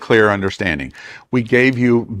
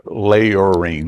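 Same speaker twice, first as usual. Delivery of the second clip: "layering" drawn out the Southern way, like lay-or-ring; "layering" stretched in a Southern accent; 3 semitones lower than usual. Shown as a demonstration. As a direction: say "layering" with a long Southern drawl on the vowels. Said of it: "that's my southern accent".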